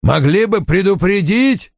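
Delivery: high-pitched, put-on voice of a reproachful secretary; grumbling secretary. A narrator's reading. Secretary reproaches boss for no warning, grumbling.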